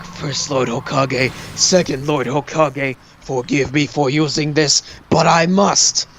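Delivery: slow, solemn invocation; Sarutobi. Retold or imitated. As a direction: gravely ask the forefathers' forgiveness, firming at the end. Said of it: "he's like".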